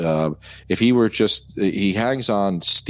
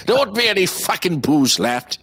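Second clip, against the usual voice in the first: half-laughing shouted line; laughing quote; 9 semitones higher than usual. Retold or imitated. Laughing while quoting the drunk's line to a friend. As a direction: quote blurted through laughter.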